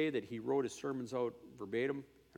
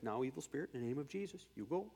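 softer, calm deliverance; gentle command; 6 dB quieter, faster than usual. Retold or imitated. Scene: kind associate quietly casting out a spirit. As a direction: speak kindly to the spirit. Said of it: "a very kind lady".

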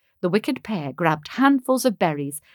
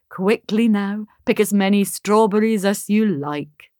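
warmly. Acted. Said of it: "June said warmly".

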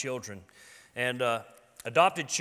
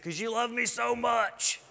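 put-on much higher, slow, sweet little boy voice; child's answer; 9 semitones higher than usual. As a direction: say it like a kid who knows he's adored. Son's answer retold.

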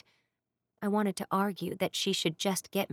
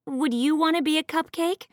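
higher, sharp sarcastic retort; snapping; 8 semitones higher, 5 dB louder than usual. A narrator's reading. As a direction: snap back irritably. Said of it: "I snapped".

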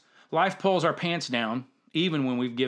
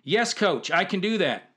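answering up louder; louder reply; 5 semitones higher than usual. Retold or imitated. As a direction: say it louder this time. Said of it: "I can't hear you".

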